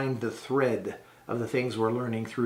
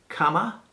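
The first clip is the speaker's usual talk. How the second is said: Kama as a question, higher and rising; asking tone; 5 semitones higher than usual. Shown as a demonstration. Teacher models asking a shopkeeper the price, Kama with questioning rise. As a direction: lift the end of Kama to ask. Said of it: "If you want to ask somebody".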